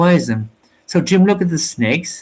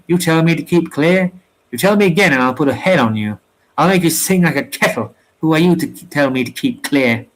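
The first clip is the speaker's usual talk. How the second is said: a touch of a heated threat, pitched up; indignant sailor. Acted. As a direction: bristle back at the insult. Jerry threatens Joe.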